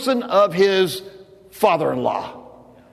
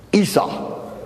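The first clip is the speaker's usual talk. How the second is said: whispered name; 3 semitones higher than usual. Acted. Dramatic reveal to congregation.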